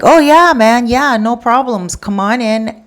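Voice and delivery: high, eager manager voice; overly eager pleaser; eager apology. Retold or imitated. Manager eagerly reassures the caller, high and gushing.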